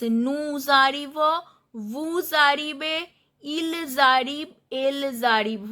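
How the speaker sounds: "Nous arrivons" and the rest linked with Z; S pronounced in liaison. Shown as a demonstration. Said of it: "I am pronouncing this S".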